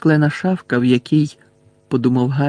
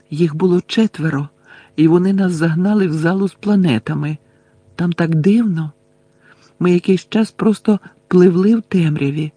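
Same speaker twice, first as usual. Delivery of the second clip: lightly voiced girl, a little higher; Luna recounting; 4 semitones higher than usual. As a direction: recount the strange ordeal as a girl.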